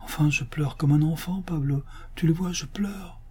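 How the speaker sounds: high-pitched, emotional rapture; tearfully moved. Acted. Master confides his joy to his majordomo, tearfully moved. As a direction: gush with tender wonder, near weeping. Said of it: "s'écria d'une voix attendrie".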